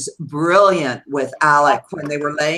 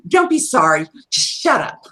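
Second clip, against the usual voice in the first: imitated snapping. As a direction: imitate her rejecting an apology. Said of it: "She's like".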